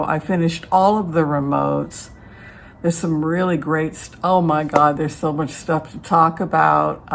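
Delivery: talking with retainers in; wearing a retainer. Real, not acted. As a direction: speak around dental retainers. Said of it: "I've got my retainers in".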